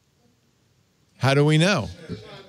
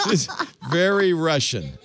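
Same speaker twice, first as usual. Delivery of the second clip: laughing; 2 semitones higher than usual. Real, not acted. Laughing at Russian dash cam.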